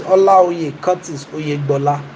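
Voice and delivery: full name with Yoruba intonation. Shown as a demonstration. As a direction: say "Olaoye Curtis Oyegbola" with native Yoruba tones. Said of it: "Can you see the intonation, the Yoruba intonation".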